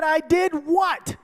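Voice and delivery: surprised. Retold or imitated. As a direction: ask in genuine bewilderment. Surprised reply to voice.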